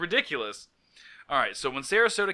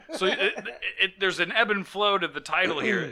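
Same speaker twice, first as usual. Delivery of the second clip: words breaking up with laughter; laughing while talking; 5 semitones higher than usual. Real, not acted. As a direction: push through the giggles.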